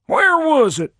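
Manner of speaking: peer up at him and drag it out, pitched high; puzzled fat chief. A narrator's reading.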